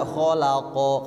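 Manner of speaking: "kholaqo" drawn out with no jolt; deliberate full vowel. Shown as a demonstration. Teacher shows the mistake, "kholaqo" smooth and long. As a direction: lengthen the final o of "kholaqo". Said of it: "bukan sengaja dibaca".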